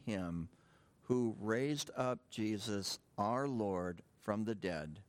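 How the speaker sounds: slow, phrase-by-phrase Bible reading; deliberate verse reading, settling at the close; scripture reading. Acted. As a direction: read it out with solemn weight, pausing between phrases. Reads scripture aloud.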